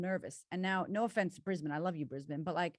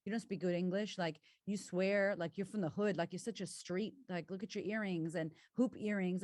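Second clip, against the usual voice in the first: inner critic. Retold or imitated. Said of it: "She's like".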